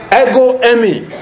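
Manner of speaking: Ego eimi said with weight on ego; emphatic Greek. Shown as a demonstration. Preacher explaining Greek to congregation, emphatic Ego eimi. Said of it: "It is emphatic".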